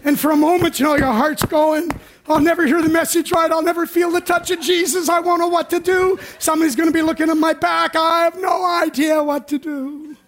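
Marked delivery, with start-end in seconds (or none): 2.3-10.2 mock anxious whine. The anxious heart speaking.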